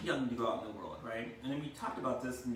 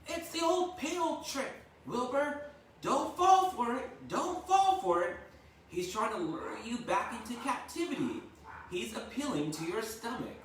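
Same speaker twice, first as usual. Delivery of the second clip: very high, louder honking goose; frantic goose cry; 12 semitones higher, 5 dB louder than usual. A narrator's reading. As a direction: squawk a warning. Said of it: "said the goose".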